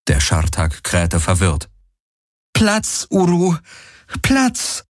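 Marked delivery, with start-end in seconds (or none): 2.5-4.9 high-pitched animal command; urgent command. A narrator's reading. Kirai tells her confused mount to lie down, commanding. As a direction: order the animal down.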